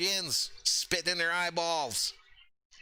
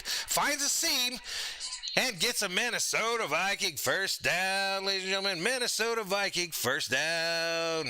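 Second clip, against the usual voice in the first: play-by-play call. Acted. Streamer calls the Vikings first down, announcer style. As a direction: sell the first down like a broadcaster.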